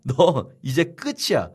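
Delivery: slow mocking threat with a laugh; gloating threat. Abner taunting Ishbosheth, slow laughing menace. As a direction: savour the final threat. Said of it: "막 화를 내면서".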